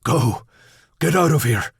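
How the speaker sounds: loud rising shout. Acted. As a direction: yell them out the door. Newt drives friends away.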